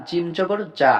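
জিম and জা with a firm, hard j; firm jim. Shown as a demonstration. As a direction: press the tongue firmly for the j in জিম জবর জা. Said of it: "শক্ত করিয়া পড়তে হবে". (জিম ও জা শক্ত করে উচ্চারণ)

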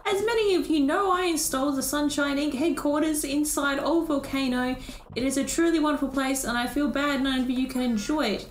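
lightly voiced pompous speechmaker; a touch of showy formality; grand robot benefactor. Robot boasting of headquarters to villagers, mildly grand.

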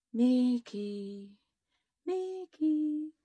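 eerie drawn-out calling; ghostly voice. A narrator's reading. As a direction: call out like a haunting spirit. Eerie voice from the book.

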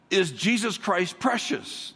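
asked slowly, each word weighed; slow probing question. Shown as a demonstration. Pastor asking the congregation, slow and searching. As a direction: lean in and ask it slowly. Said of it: "if I came to you and said".

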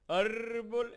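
very high, loud and drawn-out talking tree voice; voz de Ent. Retold or imitated. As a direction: boom it out slowly like a giant tree creature from Lord of the Rings. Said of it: "Están imitando a los árboles estos que hablan". (voz de árbol parlante, aguda, fuerte y muy lenta)

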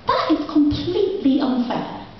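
high, slow mock indignation; mock outrage. Poet siding with the boy in mock outrage. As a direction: play up the injustice for the child. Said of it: "was like".

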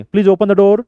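big, forceful mouth movements; shouted. Shown as a demonstration. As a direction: shout it as an example of overdoing it. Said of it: "ओरडायची गरज आहे का?".

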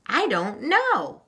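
put-on high, slow child's wail; mild wail of indecision. A narrator's reading. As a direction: draw it out in a high, helpless whine. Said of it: "wailed Meg".

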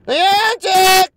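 high, loud furious yell; rage yell. Real, not acted. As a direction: scream the company name in frustration. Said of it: "do a Niantic rant, or rage".

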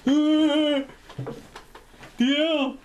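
high, loud, slow pleading shout; panicked mock protest. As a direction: beg from the cell in hammed-up panic. Imagined arrest at customs.

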